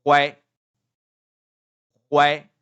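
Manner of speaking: level first-tone "Why". Shown as a demonstration. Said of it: "read it in the first tone".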